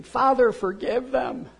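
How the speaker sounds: high cry fading to plain. Retold or imitated. Jesus praying while soldiers gamble, high cry then settling. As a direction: start high and loud, then let it drop.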